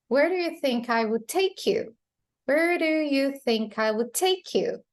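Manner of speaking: "take" and "you" stressed; emphasis on verb. Shown as a demonstration. Teacher repeats the clip for learners, stress on the verb. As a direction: lean on "take" and the final "you". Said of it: "emphasizing the verb, the principal verb, and the last word".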